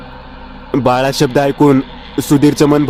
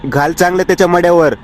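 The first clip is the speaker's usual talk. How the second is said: higher-pitched mock growl of a bitter old grandmother; angry growl; 4 semitones higher than usual. Grandmother snapping at her grandson over dinner, mild growl. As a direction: spit it out as a grudging old woman, only lightly growled. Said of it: "आजी रागाने गुरगुरत बोलली".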